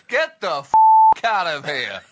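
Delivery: mock angry dismissal.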